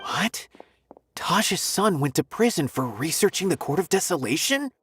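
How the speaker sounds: taken aback, questioning in disbelief; surprised. Acted. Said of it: "Why do you sound so surprised?".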